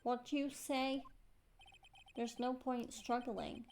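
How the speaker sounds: put-on tough-guy Brooklyn accent; Furio Tigre. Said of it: "Tigre's dialect".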